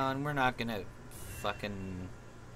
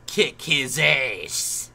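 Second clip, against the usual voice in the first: drawn-out, loud battle cry; hype shout; 8 dB louder, much slower than usual. Real, not acted. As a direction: roar it to rally the team. Hyping up his Pokemon.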